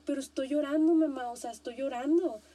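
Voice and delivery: exasperated son insisting he's already crying; whiny protest. Retold or imitated. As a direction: protest like a fed-up kid, pushing the words out. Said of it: "el hijo no le dice así como que".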